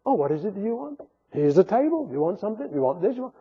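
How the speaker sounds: soft, coaxing mimic of an eager church; softly mocking a church that caters to demands; mock accommodating. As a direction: offer everything sweetly. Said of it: "that's what churches do".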